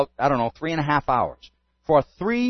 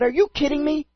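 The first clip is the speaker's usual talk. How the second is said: amazed; 10 semitones higher than usual. Retold or imitated. Woman amazed by coincidence.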